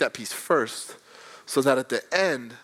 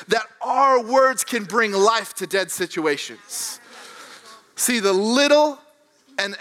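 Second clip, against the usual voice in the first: higher, impassioned sermon delivery; raised-pitch preacher's conviction; preaching; 5 semitones higher than usual. Real, not acted. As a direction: press the belief onto the congregation.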